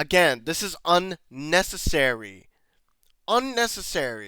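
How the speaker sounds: very angry, slow, deliberate, emphatic delivery. Complaining that the script was changed for no reason: angry. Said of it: "I'm very angry".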